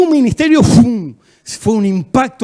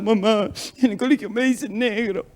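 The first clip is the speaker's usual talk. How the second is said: lightly imitated tearful child, softer voice; mock crying; 2 semitones higher, 4 dB quieter than usual. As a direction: whimper a complaint to mum, half-playfully. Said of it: "Entonces yo estaba llorando".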